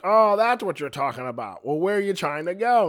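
big drawn-up "oh" of an imagined audience; acted realization. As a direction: play a listener who suddenly catches on. Acts out listeners catching on.

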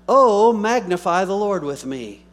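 very loud, high proclamation; exultant scripture declamation. Real, not acted. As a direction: call the congregation to worship at full voice. Reading scripture aloud to congregation.

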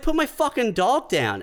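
high retold angry order; indignant demand.

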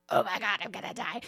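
low, soft mock despair; muttered dread. Teen as the boat guns it again, quietly doomed. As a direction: imitate a resigned, doomed teen. Imitates dreading sibling, contrast to cheer.

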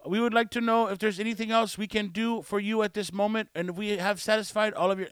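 lightly mimicked scripted phone courtesy; a hint of wordy, formal agent; long-winded call-center agent. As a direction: recite an overlong customer-service script. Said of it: "they just stretch out".

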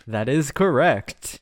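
slow announcer read. Pretend. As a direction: drag it out like an announcer. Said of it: "what's that announcer voice".

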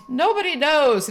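high, slow mocking sing-song; mocking his line. Retelling her date's taunt, slow mocking high voice. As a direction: mimic him teasing, drawn out.

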